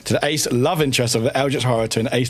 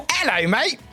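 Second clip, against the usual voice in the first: high chirpy cockney hello; Bread Boy voice; 10 semitones higher than usual. Shown as a demonstration. Streamer repeats her high Bread Boy greeting. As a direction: squeak it up like a cheeky lad. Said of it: "just do high-pitched voice".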